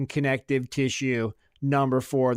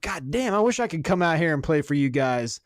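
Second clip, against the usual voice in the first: pumped-up pep talk; 3 semitones higher than usual. Retold or imitated. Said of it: "classic motivational speeches".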